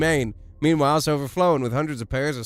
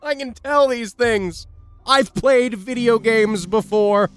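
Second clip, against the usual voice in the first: triumphant high shout; excited; 9 semitones higher, 6 dB louder, slower than usual. Real, not acted. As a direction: crow it like you called it. Triumphant gamer outburst.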